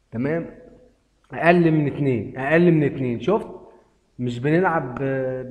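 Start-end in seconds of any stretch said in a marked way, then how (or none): 1.3-3.5 excited. Real, not acted. Gambler calling his bet to viewers, louder and hyped. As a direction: hammer the bet call home. Betting under two, hyped.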